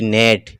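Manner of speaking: नेट with a short ए; नेट, its middle vowel a short "e" as in "bed". Shown as a demonstration. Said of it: "ये छोटा ए होता है".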